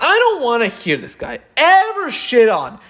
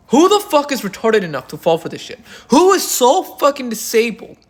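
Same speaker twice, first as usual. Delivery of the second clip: incredulous; 3 semitones higher than usual. Retold or imitated. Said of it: "And you may be saying".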